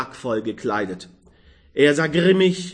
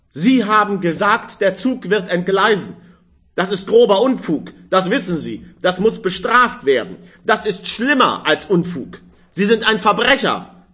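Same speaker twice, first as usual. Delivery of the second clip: raised, higher stern reproach, quick on the middle; angry scolding; 5 semitones higher, 3 dB louder than usual. Acted. Old man scolding the young man for his prophecy, angry. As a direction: lay down the law, outraged. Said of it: "sagte er zornig".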